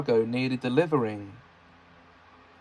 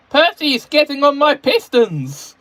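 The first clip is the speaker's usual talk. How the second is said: fed-up Thomas voice; 14 semitones higher, 9 dB louder than usual. A narrator's reading. Thomas complaining at meeting.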